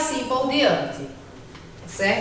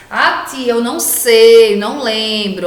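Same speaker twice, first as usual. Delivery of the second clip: lazy whiny student; 5 dB louder than usual. Retold or imitated. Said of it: "vamos deixar essa preguiça de lado".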